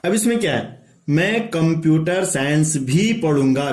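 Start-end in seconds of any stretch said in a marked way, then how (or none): 1.1-3.7 भी said louder and as the peak; stress on भी. Shown as a demonstration. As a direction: punch भी to add computer science. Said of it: "भी, ये भी जोर दे रहा है". (भी पर ज़ोर देकर)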